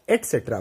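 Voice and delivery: low एटसेट्रा with t, no k; correct pronunciation. Shown as a demonstration. Teacher removing the k sound, correct pronunciation. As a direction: say एटसेट्रा as "et-setra". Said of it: "का की जो sound आ रही है उसको हम हटा देंगे".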